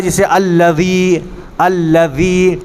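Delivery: tongue tip out on the dhāl of "الذی"; dhāl demonstration. Shown as a demonstration. Teacher gives the class an example, careful voiced th in "الذی". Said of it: "زبان کی نوک کو باہر نکالیے".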